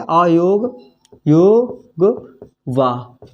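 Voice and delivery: slow, stretched-out dictation of अयोग वाह. Shown as a demonstration. Teacher to pupils writing the term, slow dictation. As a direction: draw out योग वाह for copying. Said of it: "लिख लीजिएगा इसको".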